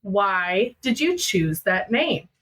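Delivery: slow, measured repeat of the question; retold mother, gravely insistent; dead serious. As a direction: spell it out slowly, demanding an answer. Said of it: "she asked me again".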